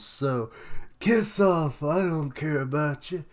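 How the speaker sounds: loud, high gloating villain; mad scientist. Retold or imitated. Voicing Queen mocking the demons.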